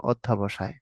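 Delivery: অধ্যাবসায় said with a long a after ধ্য; the common wrong অধ্যাবসায়, long a inserted; mispronounced word. Shown as a demonstration. Teacher shows students the common mispronunciation অধ্যাবসায়. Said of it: "অনেকে বলে বসে".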